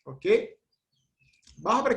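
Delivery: ordinary talk, nothing marked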